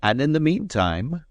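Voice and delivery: And in the meantime, meantime pointedly stressed. A narrator's reading. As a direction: hit meantime hard. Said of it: "laying a strong accent on the word".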